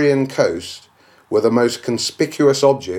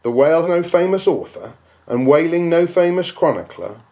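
indignant echo; 5 semitones higher than usual. Acted. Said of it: "repeats the claim as question".

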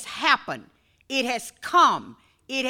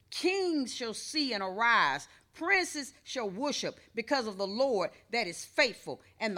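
softer, measured Bible reading; scripture reading; 4 dB quieter than usual. Real, not acted. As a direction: read the verses to the church.

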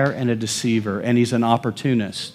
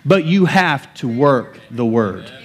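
emphatic preaching; 4 semitones higher than usual. Real, not acted. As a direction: declare it in punchy, rhythmic phrases.

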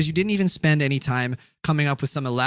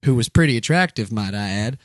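put-on Southern accent. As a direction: read the tale in a mock Southern accent. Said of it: "in a Southern accent".

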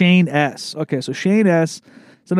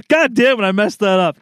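higher-pitched exasperated outburst; real frustration; 6 semitones higher, 3 dB louder than usual. Real, not acted. Host kicking himself for ruining the joke, frustrated. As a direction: curse yourself, voice jumping up.

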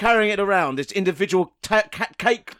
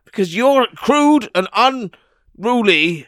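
indignant slow scold; 3 semitones higher, 6 dB louder, much slower than usual. Acted. Tycoon scolds inventor.

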